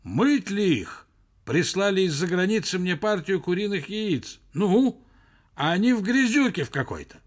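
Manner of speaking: anxious provincial caller. A narrator's reading. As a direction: plead loudly down a bad line. Worried caller shouts down the phone.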